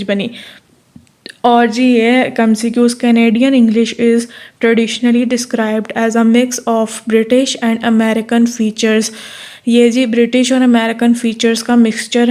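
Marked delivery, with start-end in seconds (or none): 3.0-9.1 reading the statement word by word, very slowly; slow dictation. Shown as a demonstration. Teacher dictating an MCQ to students, slow deliberate reading.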